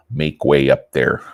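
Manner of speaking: lightly put-on Polish-type accent. Announcing himself to the Mounties, mock Polish accent. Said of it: "I'll use a Polish type, uh, accent".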